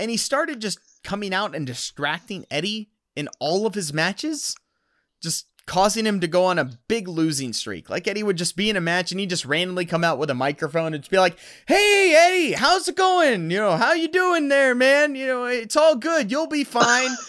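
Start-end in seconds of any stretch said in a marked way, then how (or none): 11.7-17.1 high, condescending, patronizing, talking-down tone. Retelling how a rival interrupted Eddie's matches with a microphone, in a mock-patronizing tone. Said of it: "a very patronizing thing".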